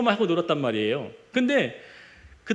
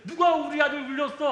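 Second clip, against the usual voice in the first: angry father; 6 semitones higher than usual. Retold or imitated. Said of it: "그 아빠가 뭐라고 한 게 없어요".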